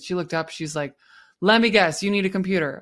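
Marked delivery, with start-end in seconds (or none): 1.4-2.8 louder, exasperated sigh of a tired HR worker; a hint of a fed-up colleague; mock frustrated. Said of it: "this person was so frustrated".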